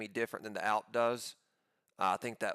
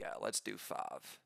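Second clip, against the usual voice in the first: whispered; 8 dB quieter, slower than usual. Real, not acted. Quiet aside while placing orders.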